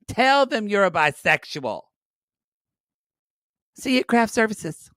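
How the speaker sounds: hammed-up producer begging; pleading producer. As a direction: beg her like a desperate producer. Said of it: "gay twink producer named Tyler".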